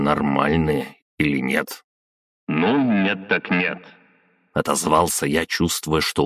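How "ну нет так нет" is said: offhand remark through a loudhailer; filtered, dismissive reply; megaphone. A narrator's reading. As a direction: shrug it off over the megaphone. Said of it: "взял мегафон".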